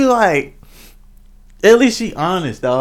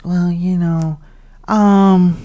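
higher, hesitant hedge; sugarcoating hesitantly; 3 semitones higher, much slower than usual. Shown as a demonstration. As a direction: ease into it with careful hedging. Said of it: "it's making it easy to be like".

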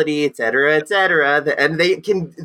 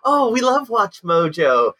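excited fans; 7 semitones higher, slower than usual. Retold or imitated. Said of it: "they're like".

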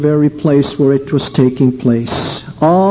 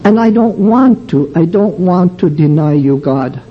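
tearful plea. Retold or imitated. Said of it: "I found myself crying to God".

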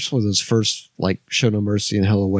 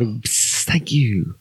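whisper; much slower than usual. Real, not acted. Aside whisper.

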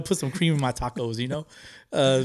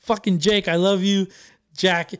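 higher, louder excited gushing; fanboy gush; 5 semitones higher, 3 dB louder than usual. Retold or imitated. Fan greeting his idols in the parking lot, higher and louder. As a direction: gush at them like a starstruck fan. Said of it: "I was like".

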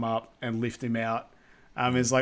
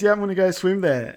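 higher, louder, quick and eager; pumped-up declaration; 7 semitones higher, 6 dB louder, faster than usual. Retold or imitated. Simon telling the boat he'll swim to Lucy, eager and loud. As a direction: psych yourself up to jump. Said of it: "and he goes".

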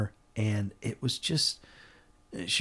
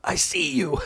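tender wonder; 5 semitones higher than usual. Retold or imitated. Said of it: "beautiful expression".

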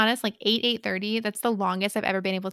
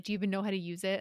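condescending; 7 dB quieter, faster than usual. Retold or imitated. Man doubting she can use her taser, condescending. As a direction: ask it with understated condescension. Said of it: "he's, like, very condescendingly".

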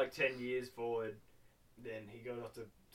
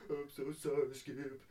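hammed-up tearful wail; mock crying. Boy apologising to his dying dog, mock crying. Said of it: "and he's just crying".

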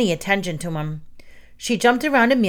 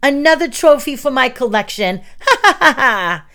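high, loud gloating with a cackle; crazed triumphant boast and laugh; maniac villain; 6 semitones higher, 5 dB louder than usual. A narrator's reading. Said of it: "laughed like a maniac".

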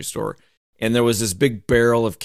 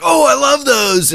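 much higher, louder gushing wife voice, slow; wife impression; 7 dB louder, slower than usual. Retelling his wife gushing over candy in a high, loud voice. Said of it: "you're my wife impersonation".

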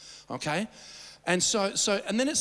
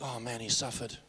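hushed, softer mock sympathy; mock pity; 8 semitones lower, 7 dB quieter than usual. Pastor imitates onlookers pitying Jesus, hushed. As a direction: sigh it like a sorry onlooker. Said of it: "You're going".

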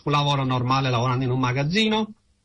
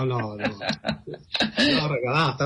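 laughing; much slower than usual. Real, not acted. Teasing about the gifted phone number.

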